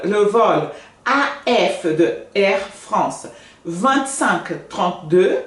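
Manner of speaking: slow, careful French numbers; lento, em francês; French demo. Shown as a demonstration. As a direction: spell it out slowly in French. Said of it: "tipo o número do voo".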